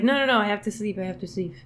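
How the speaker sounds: badly attempted French accent; half-landed French accent, trying anyway; terrible French accent. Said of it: "terrible French accent".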